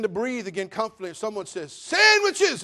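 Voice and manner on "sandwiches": high loud call from the kitchen; a relative shouting that sandwiches are ready. Acted. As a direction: yell it out to everyone. Someone calls out sandwiches.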